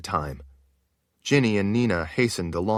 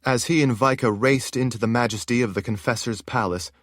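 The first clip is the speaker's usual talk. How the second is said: ordinary delivery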